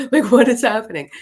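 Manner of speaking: high, loud, baffled outburst; exasperated bewilderment. Retold or imitated. Woman swarmed by excited spirit children, bewildered. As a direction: burst out loudly in total confusion.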